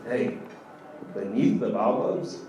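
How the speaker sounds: Beneath the Baobabs drawn out slowly with a rising tune; slow, sarcastic Beneath the Baobabs; sarcastic drawl. Shown as a demonstration. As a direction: mockingly repeat Beneath the Baobabs, slow and lilting. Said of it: "sounds like the worst place".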